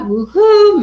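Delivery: high, loud read-out cheer. Retold or imitated. Host reading a viewer's comment aloud, cheering. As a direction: whoop it up on the viewer's behalf.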